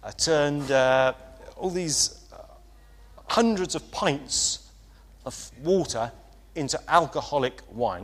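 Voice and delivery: put-on quoting an old Sunderland mate in his accent, only partly managed; attempted Sunderland accent. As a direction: Bible college friend from Sunderland quoted, mild Sunderland accent. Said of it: "I can't exactly do his accent".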